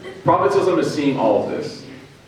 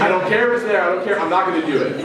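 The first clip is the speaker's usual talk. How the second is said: higher-pitched stubborn refusal; mock defiance; 4 semitones higher than usual. Woman hypothetically refusing the Prophet's word, with mock defiance. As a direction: put on an exaggerated refusal. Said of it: "That wasn't what she was like".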